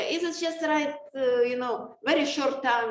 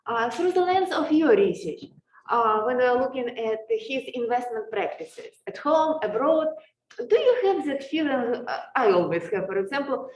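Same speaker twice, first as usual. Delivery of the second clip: muffled behind a face mask; speaking through a mask, muffled. Real, not acted. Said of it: "because of the mask".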